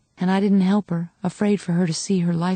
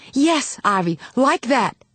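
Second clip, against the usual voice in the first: excited encouragement; 5 semitones higher, slower than usual. A narrator's reading. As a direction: spur her on. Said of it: "my mother said excitedly".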